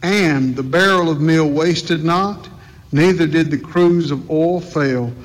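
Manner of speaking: measured, solemn Bible reading; scripture reading. Acted. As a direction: read the King James text with reverence.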